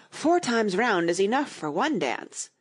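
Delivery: panting after dancing; puffing, short of breath. Acted. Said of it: "Tweedledum panted out".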